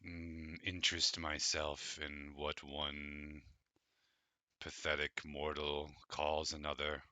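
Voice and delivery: slow, scornful ancient dragon; disdainful dragon. Acted. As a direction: sneer down at mere mortals, slowly. GM voices the dragon.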